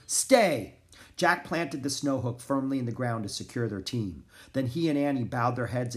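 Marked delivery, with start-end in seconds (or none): 0.1-0.8 raised, firm command; ordering. A narrator's reading. Annie holding the team in place, ordering. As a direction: call out for the dogs to hold. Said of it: "Annie ordered".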